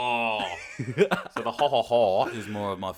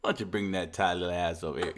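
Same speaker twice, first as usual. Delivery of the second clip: frat bro; 4 semitones lower, 4 dB quieter, faster than usual. Pretend. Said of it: "like a frat boy".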